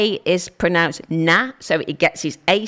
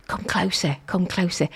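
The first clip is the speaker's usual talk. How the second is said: hushed beckoning; 2 semitones lower, 5 dB quieter than usual. Acted. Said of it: "co-host's odd remark".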